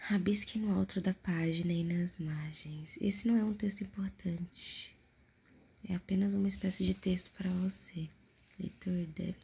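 hushed whispered reading; whispering. Acted. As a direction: whisper close to the mic.

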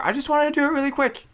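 put-on high, whiny child voice on the last line; mock little kid. Friend imitates a child who wants to do it quick, high. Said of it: "I love how little kids think".

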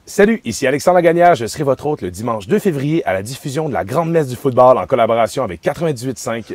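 upbeat radio host pitch; radio ad read. Acted. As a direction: sell the party like a radio promo. Recording a radio ad.

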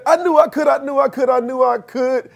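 high, ringing I knew I could; triumphant little engine. Retold or imitated. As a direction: crow it from the top of the mountain. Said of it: "He said".

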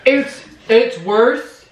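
slow, strained talk with burning mouth. Real, not acted. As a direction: talk through burning lips. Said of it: "You can talk normal".

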